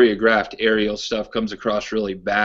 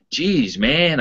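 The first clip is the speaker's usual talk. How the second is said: imitating Pittsburgh accent; 5 semitones higher than usual. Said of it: "I'll try to do his accent".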